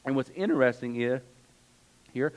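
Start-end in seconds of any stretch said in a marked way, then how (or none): 2.1-2.3 slipping into an English accent; a brief, unplanned English-accented pronunciation; accidental English accent. Real, not acted. Preacher noting what is interesting in the verse, accidental English accent. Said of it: "I don't know where that English accent came from".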